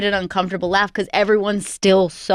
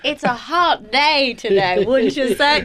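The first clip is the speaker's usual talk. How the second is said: put-on lightly slow southern accent; a mild slow southern accent; fake southern accent. Mocking a stage southern accent. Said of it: "Just, like, a southern accent".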